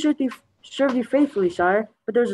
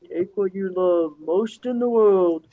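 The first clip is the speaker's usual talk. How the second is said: slow, drawn-out ghostly voice; haunting voice; 3 semitones lower, slower than usual. Acted. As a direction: moan it like a ghost in stone. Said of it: "a ghostly voice emanated from the statue".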